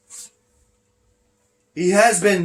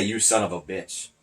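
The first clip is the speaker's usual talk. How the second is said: imitated curse; 8 semitones lower, 8 dB quieter than usual. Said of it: "I know for a fact he was gonna say".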